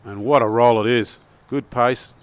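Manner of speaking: loud thrilled call of the putt; excited. Real, not acted. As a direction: lift the voice as the ball rolls in. Eagle putt drops.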